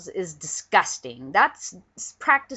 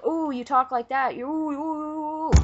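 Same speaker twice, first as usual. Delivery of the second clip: higher, mock-shocked ooh ooh ooh; mocking critics; 7 semitones higher than usual. Vlogger mocking people offended by his swearing, higher mock gasps. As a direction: mimic prissy critics clutching pearls. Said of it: "but people".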